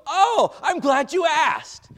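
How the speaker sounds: loud, high, slow, hammed-up delighted gossip; gleeful gossip. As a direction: gush as if thrilled to be asked. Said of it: "And I go".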